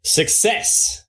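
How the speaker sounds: hushed, barely voiced success; reserved. Real, not acted. Game master reveals the roll's result, reserved. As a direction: announce it under your breath. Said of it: "was so reserved".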